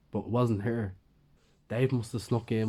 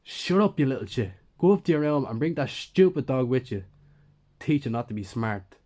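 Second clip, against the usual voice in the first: much higher, louder furious yell; angry shout; 3 semitones higher, 5 dB louder than usual. Acted. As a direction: bark it at the kid like a bully. Dave yelling at the teen.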